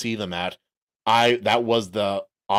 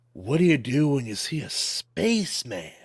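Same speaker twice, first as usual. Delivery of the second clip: stoner voice; 2 semitones higher than usual. Acted. Stoner joke voice.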